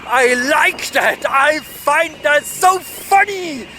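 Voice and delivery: mock-rapturous praise with swooping emphasis; sarcastic delight. Real, not acted. Rider on a bumpy road praising the builders, sarcastic. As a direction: gush sarcastically, sighing between the phrases.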